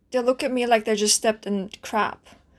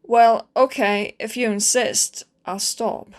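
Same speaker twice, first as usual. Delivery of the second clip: sulky giving in; slower than usual. Acted. Asked to stop talking, gives in.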